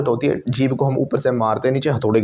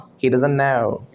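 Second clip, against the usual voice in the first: "He doesn't know" said very slowly; slow demo; much slower than usual. Shown as a demonstration. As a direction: spell it out word by word. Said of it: "वो एक चीज़ और कहते हैं". (बहुत धीरे बोलो)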